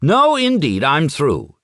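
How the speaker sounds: put-on old man quitting his story in a huff; sharp retort. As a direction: bristle and quit. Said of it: "he retorted".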